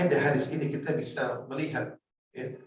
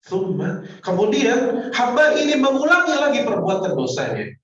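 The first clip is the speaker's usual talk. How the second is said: loud, high preaching swell; preaching at full force; 9 semitones higher, 8 dB louder than usual. Acted. Preacher exhorting the congregation, loud and high. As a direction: drive the point home to the crowd.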